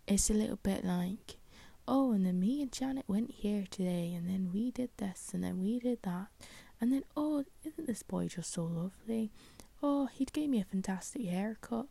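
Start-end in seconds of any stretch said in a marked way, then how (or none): 1.9-11.9 put-on rural old villager's accent, pitch swooping up on the exclamations; farmery accent. Podcaster mimicking the book's older narrators, in a farmery accent. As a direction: put on a chatty countryside old person's accent. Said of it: "I don't know why I did that accent".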